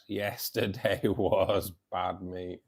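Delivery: drawn out slowly through a laugh. Real, not acted. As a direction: laugh the words out, dragging them.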